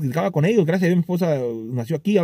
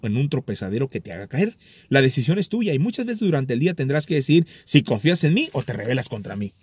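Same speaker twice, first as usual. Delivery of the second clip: lightly read-aloud devotional passage, a bit lower; 3 semitones lower than usual. Acted. Reading a devotional to his viewers to close, a hint of solemn reading. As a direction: read the scripture message to the viewers, unhurried.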